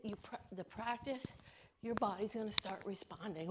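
breathless from jumping; talking while bouncing, short of air; out of breath. Real, not acted. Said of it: "I can't talk and jump at the same time".

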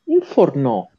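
"Infornò" with a punched last syllable; stress on final O. Shown as a demonstration. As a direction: land firmly on the ò of "Infornò". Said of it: "lo metti l'accento su infornò".

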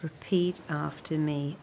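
whisper. Acted. Prompting the listener to repeat, whispered. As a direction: whisper the cue.

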